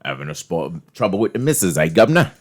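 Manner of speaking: mock Cockney, lifting on the last words; Cockney accent. Showing friends a Cockney bit, mock Cockney accent. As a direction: play a chatty Cockney with a cheeky tag. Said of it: "when you guys do the accents".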